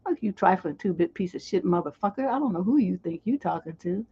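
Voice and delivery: level, unraised telling-off; calm cussing out. Shown as a demonstration. Showing she can cuss you out, calm and even. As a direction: cuss them out without raising your voice. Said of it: "cuss you out in this tone of voice right here".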